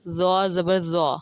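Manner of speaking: slow, heavy emphatic z in زو; distinct letter articulation. Shown as a demonstration. Teacher showing learners similar letters, slow heavy z. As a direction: round and thicken the z of زو. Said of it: "ان کی ادائیگی بالکل".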